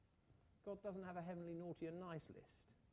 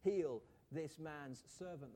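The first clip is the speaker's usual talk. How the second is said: pleading; 3 semitones higher, 5 dB louder, slower than usual. Retold or imitated. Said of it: "they begged earnestly".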